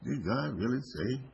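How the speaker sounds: sing-song, lightly voiced devil's question; mock tempter's wheedling question; tempting devil. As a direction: swing the pitch up and down, planting doubt. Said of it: "didn't really say it like that".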